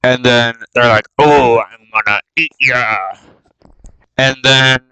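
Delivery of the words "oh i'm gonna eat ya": a hint of a goblin's growly menace; goblin threat, lightly voiced. Goblins tell Bilbo they will eat him, lightly menacing. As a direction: threaten like a hungry goblin, half-hearted.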